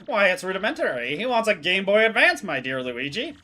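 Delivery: lightly voiced, grandly deducing gentleman; pompous detective. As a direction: play it like a smug sleuth revealing the answer. Voicing the detective Pengington.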